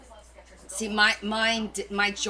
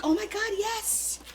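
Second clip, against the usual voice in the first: high squealing yes; thrilled at the paper; excited squeal; 10 semitones higher than usual. Retold or imitated. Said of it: "I'm like".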